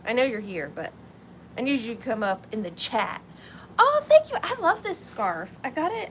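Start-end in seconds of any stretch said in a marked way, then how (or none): 3.8-6.1 excited. Real, not acted. Viewer shows up in chat.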